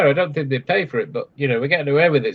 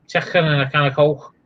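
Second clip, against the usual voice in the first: gravelly Scottish accent. Shown as a demonstration. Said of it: "it's more gravelly".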